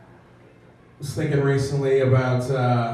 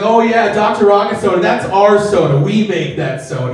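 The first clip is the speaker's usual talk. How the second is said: proud manager; 4 semitones higher, 5 dB louder than usual. Retold or imitated. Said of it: "the manager's like".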